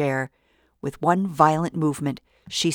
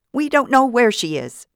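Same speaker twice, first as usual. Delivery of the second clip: high, louder shout; 8 semitones higher, 5 dB louder than usual. A narrator's reading. Vida shouting at Elbert in the kitchen. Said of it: "Vida shouted".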